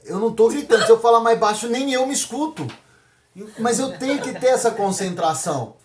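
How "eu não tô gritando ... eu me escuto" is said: louder, mock-defensive denial; loud protest. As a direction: insist you are not shouting while getting louder. Acts out loud denial of shouting.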